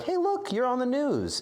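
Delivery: high-pitched imitation of a mother; lightly voiced mom. Mom messaging streamer about the news, lightly imitated. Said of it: "a message from, like, my mom".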